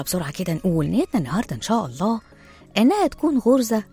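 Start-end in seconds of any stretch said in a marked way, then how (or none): 2.8-3.8 emphatic rhymed delivery, line by line with pauses; rhymed monologue recitation. Acted. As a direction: recite it like a spoken poem, punching the rhymes. Recites rhymed opening monologue over music.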